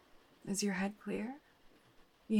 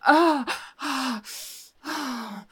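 rising to loud, higher cries of release; climax cries; 6 semitones higher, 9 dB louder, slower than usual. Acted. Reaching her climax with the detective, loud cries. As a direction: let go fully, louder and higher each time.

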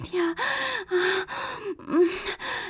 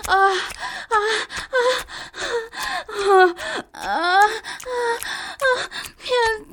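breathless moaning; 3 semitones higher, slower than usual. Acted. Climax moans, cry heard.

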